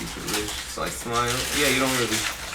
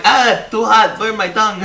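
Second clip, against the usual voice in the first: mock complaint; 7 semitones higher, 5 dB louder, slower than usual.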